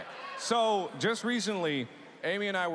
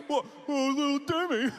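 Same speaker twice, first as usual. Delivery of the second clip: mock-sweet, higher, sarcastic; 7 semitones higher than usual. Telling little Timmy Santa isn't coming, sarcastic. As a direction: coo it falsely to the child. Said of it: "sarcastic like that".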